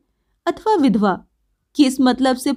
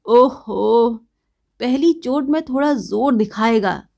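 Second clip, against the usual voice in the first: tipsy heckling yell, drawn out; drunken shout; slower than usual. Acted. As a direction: holler it out like a drunk. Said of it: "शराबी सुनते ही चिल्ला उठा".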